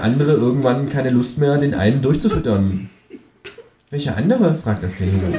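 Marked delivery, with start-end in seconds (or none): 3.9-4.5 high, cheeky kangaroo voice. Acted. Reading aloud, the narrator voices the Kangaroo asking him to pay, high and cheeky. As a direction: voice the Kangaroo a notch higher.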